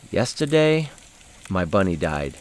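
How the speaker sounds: a hint of a child breaking sad news; solemn little girl. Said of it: "and go".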